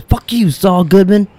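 slow, loud spat curse at Jimmy; mock curse. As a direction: drag it out with contempt. Chuck cursing Jimmy.

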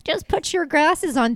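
imitating someone pushing advice on others; breezy mock advice. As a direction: chirp it like easy advice. Voices smug advice to others.

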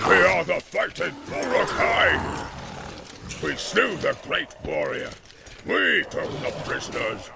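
loud, slow war boast; boastful roar. A narrator's reading. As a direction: Ugluk rallying his fighters. Ugluk boasts and commands.

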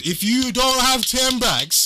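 slow, deliberate restatement; slow emphatic. Real, not acted. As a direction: spell it out slowly.

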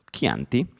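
"Chianti" slowly, "KIAN-ti" with a hard k; careful slow "Chianti", hard k; Italian pronunciation. Shown as a demonstration. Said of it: "pero, psh".

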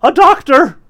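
high, loud cry for help; desperate cry. A narrator's reading. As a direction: beg for a doctor at full voice. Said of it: "cried desperately for all the theater to hear".

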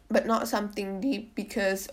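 a real crack breaks the voice. Real, not acted. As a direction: voice cracks mid-phrase. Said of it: "my voice just cracked".

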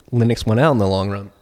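words with a burp. Real, not acted. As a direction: talk through a burp. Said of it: "Excuse me, I'm burping now".

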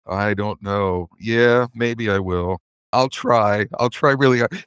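lightly acted evasive employee, stalling; unsure mumble.

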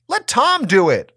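put-on high, sharp teen retort; shot back. A narrator's reading. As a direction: snap back like an annoyed teenager. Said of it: "I shot back".

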